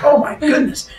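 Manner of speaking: high-pitched, adoring coo; gushing. Acted. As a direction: gush high over a cute animal. Leto gushing over the swan.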